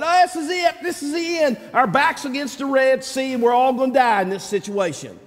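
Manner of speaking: high, imitating a panicked worrier; mock panic. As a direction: play the doom-sayer, half-joking. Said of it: "we're sitting back going".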